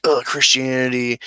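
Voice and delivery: hammed-up scoffing at the word; imitating a sneering critic; mock disgust. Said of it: "I'm not some libtard where I'm like".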